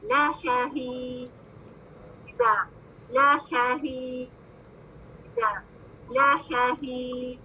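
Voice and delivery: ला शहीद slowly, ला short; slow recitation. Shown as a demonstration. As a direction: model ला शहीद for repeating. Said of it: "आप बोले".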